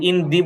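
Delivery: "in the" said as "in dee"; "dee" in place of "da". Shown as a demonstration. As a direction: give "the" an ee vowel. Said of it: "দাটা দি উচ্চারণ হবে".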